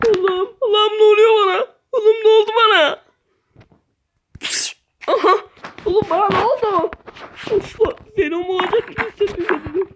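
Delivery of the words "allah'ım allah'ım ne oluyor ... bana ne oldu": mock wailing. Character transforms, wails.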